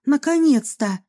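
relieved burst as she runs in; a touch of relief; exclaiming. Acted. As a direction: Lena bursts into the doctor's study, relieved. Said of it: "воскликнула она".

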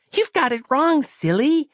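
put-on high, childlike, earnest voice; a naive small girl explaining; high child's voice, trusting and matter-of-fact; innocent little girl. Christabel's voice held.

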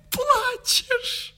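high, crying gasp then asking; tearful cry. Acted. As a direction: break into a sob and ask. Она видит его слёзы. (тихо всхлипывает и спрашивает)

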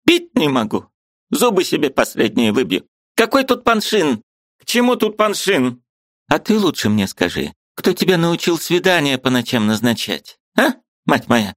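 put-on high, indignant old woman's voice; angry old aunt. Aunt bursting in to scold her niece, high and indignant.

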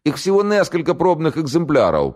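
high southern Ukrainian-tinged voice saying "несколько экземпляров"; southern accent. A narrator's reading. The prisoner hastening to inform the major, in a southern accent. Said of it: "по-южному выговаривая".

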